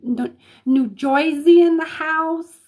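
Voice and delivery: a light mock New Jersey accent, slow. Host welcoming New Jersey viewers, in a crappy mock Jersey accent. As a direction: drawl the shout-out like a Jersey local, half-joking. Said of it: "Pardon the crappy accent".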